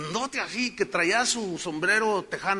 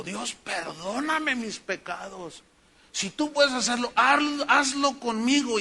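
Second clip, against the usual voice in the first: a touch of weeping; 5 semitones higher, slower than usual. Retold or imitated. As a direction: plead to God, lightly voicing the man's tears. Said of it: "empezó a llorar". (un toque de llanto al rezar)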